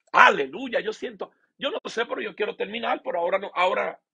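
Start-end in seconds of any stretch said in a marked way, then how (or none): 0.1-0.8 louder, higher, rising praise cry; exultant hallelujah. Real, not acted. Preacher praising God mid-sermon, an exultant cry. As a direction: burst out in praise. Worship outburst.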